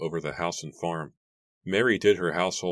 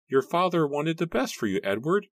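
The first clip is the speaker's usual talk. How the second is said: put-on high, pleading old man; weary old uncle voice; 12 semitones higher, 3 dB louder than usual. A narrator's reading. Matthew's voice.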